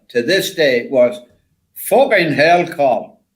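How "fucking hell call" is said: lightly imitated Yorkshire exclamation; Yorkshire accent. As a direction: swear in mild mock Yorkshire. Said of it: "In a Yorkshire accent".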